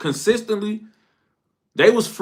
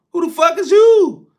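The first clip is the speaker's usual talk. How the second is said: retold angry shout; 8 semitones higher, 5 dB louder than usual. Retold kid argument over bike.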